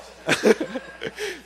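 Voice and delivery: sudden high burst of laughter; high giggle at his own scheme. Real, not acted. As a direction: break into a giddy laugh.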